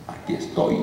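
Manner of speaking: hushed demon voice, barely voiced; quiet demon voice, near whisper. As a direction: let the demon announce itself in a breathy hush. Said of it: "Entonces me sale el demonio".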